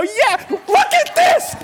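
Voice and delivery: high, shouted, overjoyed whooping; wildly hammed-up jubilation at full pitch; ecstatic healed man. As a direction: shout like your legs just started working. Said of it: "you can imagine he's".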